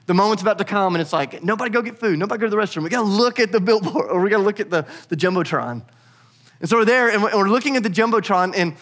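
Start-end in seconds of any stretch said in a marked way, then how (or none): 1.4-5.8 retold urgent orders, pitched up; mildly frantic don't-miss-it instructions; urgent warning. Family waiting for the Jumbotron message, urgent. Parents urging kids before the message.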